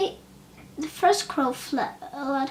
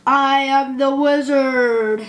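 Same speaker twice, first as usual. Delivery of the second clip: booming fire voice; 9 dB louder, slower than usual. Acted. Ball of fire speaks.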